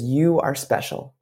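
lightly voiced, slow tender assurance; wood carver. Wood carver tells Punchinello his worth, slow, lightly acted tenderness. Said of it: "He goes".

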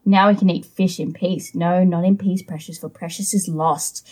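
lightly voiced Gollum, hissing and muttering to himself; a hint of a sulky Gollum talking to his precious. Reads Gollum's lines in character.

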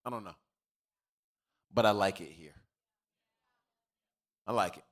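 low, quiet, unsure musing; halting low murmur with long pauses; hesitant newcomer. Acted. Voicing hesitant new churchgoer.

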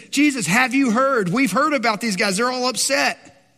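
hammed-up gossip bringing news; mock scandalized. Acts out gossiping disciples.

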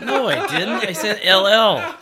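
high, loud denial through laughter; indignant protest. Real, not acted. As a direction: argue back, half laughing. Protests a ruling amid laughter.

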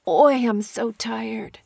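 slow, worn-out Oi with a tired sigh; weary sigh. Shown as a demonstration. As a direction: drag it out like you're exhausted. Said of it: "It means, like".

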